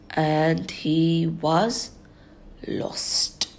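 slow, whispered dread; hushed. A narrator's reading. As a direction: let it sink, slow and hushed. Story climax, hushed.

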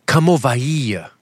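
imitated Portuguese "ova hia"; mock Portuguese accent, drawn-out ending; wicked Portuguese accent. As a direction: call over in a Portuguese accent. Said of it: "They had a wicked accent".

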